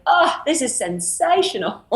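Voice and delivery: a joyful castmate savoring her food in a high, slow gush; gushing Australian castmate. Retold or imitated. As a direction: gush over a bite of food like it's a feast. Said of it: "she'd be like".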